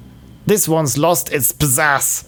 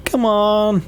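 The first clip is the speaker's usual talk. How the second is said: whiny complaint; 4 semitones higher than usual. Acted. Customer complains loudly.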